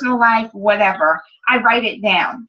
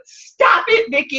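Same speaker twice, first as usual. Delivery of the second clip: teary laugh; 7 semitones higher, 3 dB louder, slower than usual. Real, not acted. Teary friend makes her laugh.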